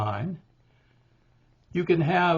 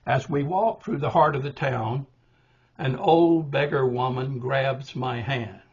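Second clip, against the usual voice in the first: poem reading. Shown as a demonstration. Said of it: "So the poem goes like this".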